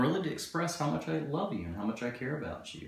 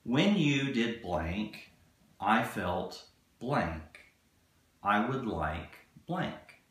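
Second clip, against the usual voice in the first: slow, deliberate formula read; a coach spelling out the template; much slower than usual. Shown as a demonstration. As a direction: spell out each blank slowly. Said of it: "here's the formula".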